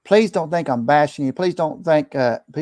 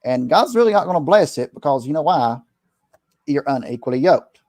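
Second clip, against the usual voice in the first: preacher mode. Retold or imitated. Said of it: "I go in preacher mode".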